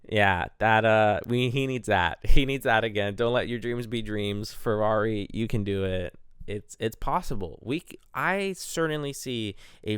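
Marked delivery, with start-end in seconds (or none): 3.1-6.1 a hint of the pep-talk meme, fairly loud; mild mock motivational cheer; lightly voiced Shia LaBeouf. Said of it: "Shia LaBeouf?".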